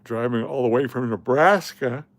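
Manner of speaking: talking through a yawn; words stretched by a yawn. Real, not acted. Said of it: "excuse me for the yawn".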